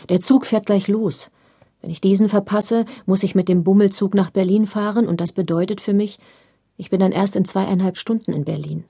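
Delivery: scolding father. Retold or imitated. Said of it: "schimpfte ich meinen Vater an".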